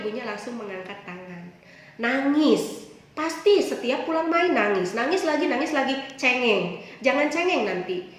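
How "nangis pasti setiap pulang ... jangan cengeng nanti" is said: mother scolding. Retold or imitated. Mother scolding crying child.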